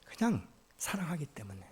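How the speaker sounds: hushed, unvoiced confession; whisper. Real, not acted. Preacher whispering to the congregation why, because of love. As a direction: breathe the words out softly.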